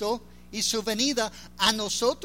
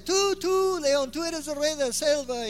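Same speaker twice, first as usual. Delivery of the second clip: monkey voice; 5 semitones higher than usual. Acted. Monkey answers the lion in fable.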